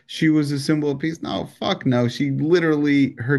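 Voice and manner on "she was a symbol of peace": mock reverent mourner. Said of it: "Everyone's like".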